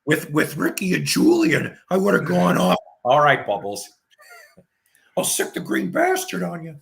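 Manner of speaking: lightly mimicking Ricky from the trailer park; Trailer Park Boys bit. Host riffing on Trailer Park Boys to his cohost, mock yelling. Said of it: "lived in Sunnyvale Trailer Park".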